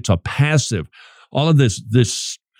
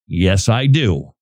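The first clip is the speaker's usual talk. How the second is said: calm assurance; 5 semitones lower, slower than usual. Acted. Voices rabbi's calm reply.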